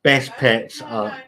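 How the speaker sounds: slowed right down on "best pets are"; slow emphatic repeat. Shown as a demonstration. Vlogger correcting a viewer's chat comment, slow and deliberate. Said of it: "I can attest to the fact".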